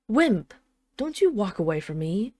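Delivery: loud sharp call of a nickname; calling out loudly. Acted. Dragon queen calls after her husband, loud call. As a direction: call him back before he leaves.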